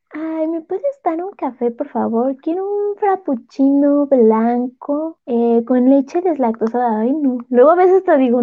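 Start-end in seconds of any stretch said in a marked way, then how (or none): 0.1-7.0 polite ordering voice. Shown as a demonstration. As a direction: order a coffee in your shy high voice. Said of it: "cuando pido un café o algo es como". (voz aguda y tímida al pedir un café)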